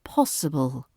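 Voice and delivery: possible low and soft with a clean s; possible, falling, no buzzing zzz; crisp possible. Shown as a demonstration. Teacher repeating possible the British way. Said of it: "No buzzing zzz sounds".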